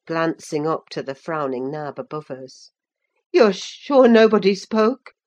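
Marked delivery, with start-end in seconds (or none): 3.3-5.1 Linton. A narrator's reading. Linton asks anxiously.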